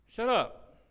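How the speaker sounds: God cutting in on excuses, loud blunt command. Acted. Preacher voicing God to the congregation, blunt loud command.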